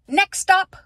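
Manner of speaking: bright announcer call. Real, not acted. Vlog segment announcement.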